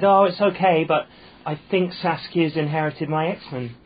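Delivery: a retold, lightly done Essex accent, slow; imitating his Essex sister-in-law, Essex vowels. Sister-in-law on the phone to him, in an Essex accent. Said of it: "clear in the accent".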